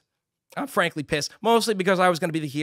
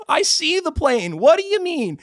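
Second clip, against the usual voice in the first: high, loud indignant shout; exasperated high-pitched protest; retold angry yelling; 10 semitones higher, 5 dB louder than usual. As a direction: yell your disbelief into the void. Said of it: "I'm just yelling to the ether".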